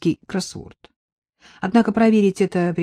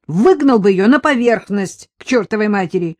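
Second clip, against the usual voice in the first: louder, gruff irritation; annoyed sergeant; 4 semitones higher, 6 dB louder than usual. Acted. Sergeant fed up with the homeless woman, irritated. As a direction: grumble it like a fed-up cop.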